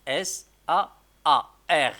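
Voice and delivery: each letter called out loud and separately; loud letter spelling. Shown as a demonstration. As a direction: call out each letter loudly to the class. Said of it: "إذا عندنا أ". (تهجئة الحروف بصوت عالٍ)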